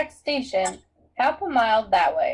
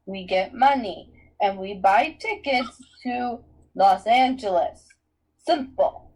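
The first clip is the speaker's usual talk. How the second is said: slow, firm, louder planning voice; strategy voice; 3 semitones lower, 4 dB louder than usual. Acted. Annabeth explains the plan to friends, strategy voice. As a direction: lay out the plan deliberately. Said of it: "in her best strategy voice".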